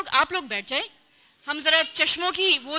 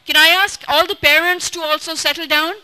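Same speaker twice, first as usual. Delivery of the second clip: calling out; 7 dB louder than usual. Real, not acted. Calling out to settle parents.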